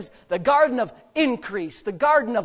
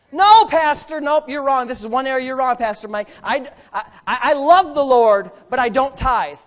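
a touch louder, defiant churchgoer; mock objector; 6 dB louder than usual. Churchgoer arguing with Pastor Mike, lightly defiant. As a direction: argue back like a stubborn member.

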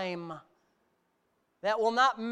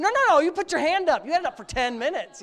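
retold scolding; 8 semitones higher, 9 dB louder than usual. Dad scolding son in retold scene.

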